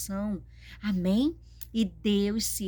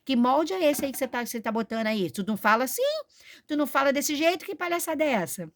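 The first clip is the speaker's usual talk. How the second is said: louder, higher mock call-out of a preacher; pretend scolding; 5 semitones higher, 3 dB louder, faster than usual. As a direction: confront him as if stopping his show. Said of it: "vou falar".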